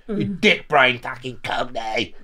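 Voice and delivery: loud, high mock shout. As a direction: bark it like a hard man. Imagined tough retort.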